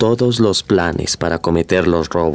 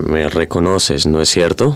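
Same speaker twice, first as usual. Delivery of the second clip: Lord Ferrison voice; 2 semitones lower than usual. Acted. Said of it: "vuelve a hablar con la voz de Lord Ferrison".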